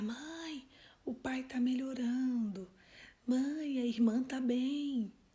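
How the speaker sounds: slow, drawn-out calling voice. Retelling a boy giving his mother news through a wall: imitating a boy shouting. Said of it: "ele começa a gritar".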